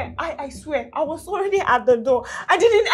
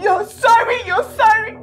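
mocking his apology; 4 semitones higher than usual. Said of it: "This is what you say every time".

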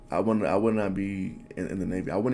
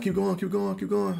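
high-pitched imitation of people egging on; urging onlookers; 11 semitones higher than usual. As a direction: mimic the crowd urging a swimmer on. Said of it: "They're like".

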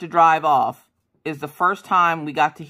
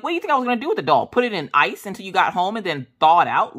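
sarcastic retort; 4 semitones higher, faster than usual. Retold or imitated. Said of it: "I'm like".

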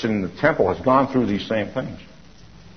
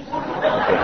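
soft laugh; 4 dB quieter than usual. Real, not acted. Ends story with a laugh.

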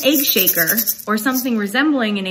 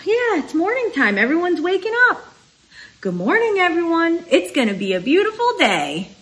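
story read-aloud; 6 semitones higher than usual. A narrator's reading. Story's household waking up.

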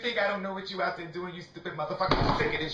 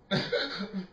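breathless cackling; 2 semitones higher than usual. Real, not acted. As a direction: crack up until the voice drops out. Cracking up after the rant.

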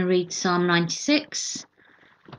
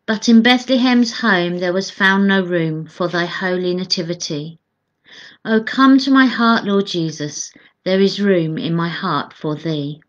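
measured devotional verse reading; hymn read aloud. Acted.

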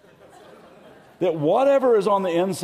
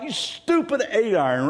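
mock anger; 6 semitones higher than usual. Mock yelling at objects.

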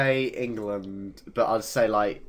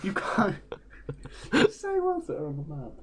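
whisper; 7 semitones higher than usual. Real, not acted.

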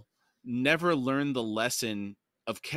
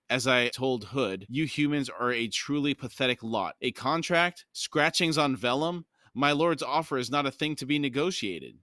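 contemptuous. Acted. Herald scorns the humans' contract, contemptuous. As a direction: sneer at the humans. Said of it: "Gethel gave a contemptuous laugh and said".

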